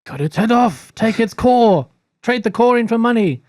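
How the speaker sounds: high-pitched, excited egging on; eager urging. Acted. A player urging the party to loot the robot, excited high urging. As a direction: urge them on in a high, rising cry.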